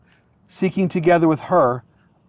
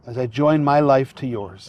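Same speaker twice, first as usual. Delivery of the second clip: officiant feeding vows phrase by phrase; short phrases with pauses; 3 semitones lower than usual. Shown as a demonstration. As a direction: say each phrase, then pause for the repeat. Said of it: "repeat phrase by phrase after me".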